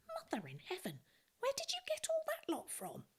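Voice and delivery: whispered, then rising in amazement; hushed astonishment. Acted. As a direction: gasp it out in wonder. Joseph astonished by the loaves.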